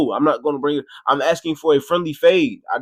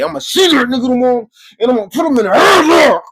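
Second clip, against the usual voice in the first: much higher, louder boasting shout; heated threat; 10 semitones higher, 5 dB louder, faster than usual. Retold or imitated. On the bus vowing revenge, heated shout. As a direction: shout it, all fired up on the bus.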